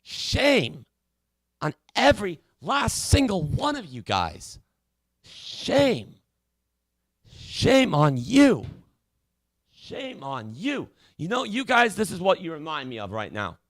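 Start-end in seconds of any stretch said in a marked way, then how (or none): 0.0-10.9 slow, quiet scolding; drawn-out shaming. Acted. Host shaming the callers, slow quiet scolding.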